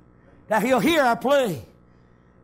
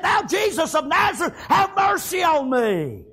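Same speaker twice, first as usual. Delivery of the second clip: crying out. Retold or imitated. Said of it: "he began to cry out".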